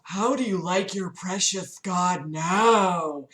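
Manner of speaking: slow, taunting monster voice; cackling fiend. Acted. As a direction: taunt slowly as a mock fiend. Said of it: "it laughed and cackled".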